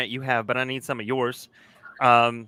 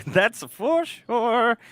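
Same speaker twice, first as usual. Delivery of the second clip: laughing; 9 semitones higher, much slower than usual. Real, not acted. Laughing agreement.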